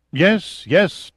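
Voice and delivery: eager, high-pitched yes yes; quick answer. A narrator's reading. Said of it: "Chaik quickly answered".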